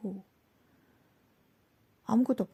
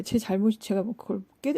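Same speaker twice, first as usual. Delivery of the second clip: ordinary talk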